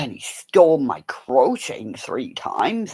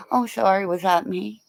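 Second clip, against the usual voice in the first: cat voice; 7 semitones higher, 3 dB quieter than usual. Pretend. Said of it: "they'll go".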